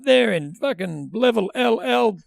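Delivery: loud, high, teasing announcer call-out; single out a fan over the PA; mock MC heckle. Imitating the hype man calling out a fan, loud MC heckle.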